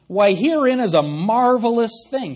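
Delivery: lightly mocking reading of the line. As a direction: read it with a sly mocking edge. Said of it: "He's mocking them".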